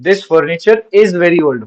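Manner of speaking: put-on this furniture is very old said slowly; slow repeated example. Shown as a demonstration. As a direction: repeat the model sentence slowly. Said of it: "जैसे this furniture". (धीमे दोहराया गया उदाहरण वाक्य)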